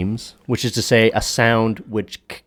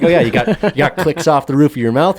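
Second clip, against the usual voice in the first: amazed; 7 semitones higher, 6 dB louder than usual. Retold or imitated. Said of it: "I was like".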